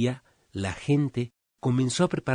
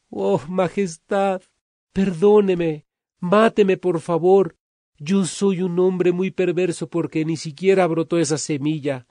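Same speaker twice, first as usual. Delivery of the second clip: tearful pleading; 6 semitones higher, 5 dB louder than usual. Acted. Freddy begging the king to punish him, loud tearful high pleading. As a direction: beg the king for punishment, close to tears. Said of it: "Él estaba llorando".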